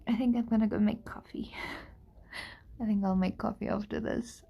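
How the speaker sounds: tired whisper; breathy sleepy aside. Real, not acted.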